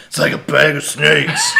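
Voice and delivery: put-on voice. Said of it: "Sorry, voice".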